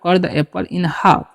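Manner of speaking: very slow, word by word; spelled-out dictation pace; slow model reading. Shown as a demonstration. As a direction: say each word slowly for the class to copy. Teacher repeats model sentence.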